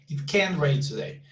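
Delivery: CAN emphasized, then falling away; stress on CAN. Shown as a demonstration. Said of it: "put the emphasis on this one".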